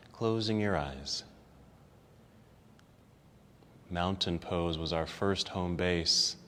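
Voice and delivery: soft, unhurried relaxation voice; guided relaxation. Acted. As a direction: ease them down into rest. Leads closing relaxation.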